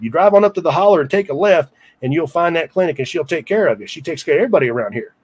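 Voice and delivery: lightly put-on rural mountain accent; storekeeper's mountain accent. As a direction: imitate a country storekeeper's accent, giving directions. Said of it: "to do his accent here".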